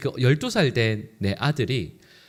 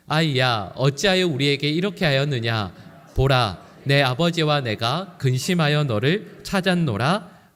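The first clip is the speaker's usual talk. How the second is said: congregation reading scripture aloud. Shown as a demonstration. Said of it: "같이 읽어볼까요".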